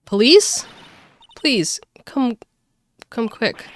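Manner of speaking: high, loud, broken plea; panicked call for help. Acted. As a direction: beg down the phone for the police. Woman phoning police in panic.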